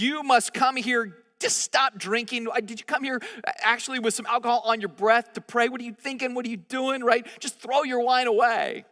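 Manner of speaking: the priest Eli rebuking Hannah, mock stern; scolding priest. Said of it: "and so he says".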